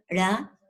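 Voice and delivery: "ra" alone as a separate syllable. Shown as a demonstration. Teacher showing two syllables, "ra" said on its own. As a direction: sound out "ra" by itself after a break. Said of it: "la otra sílaba".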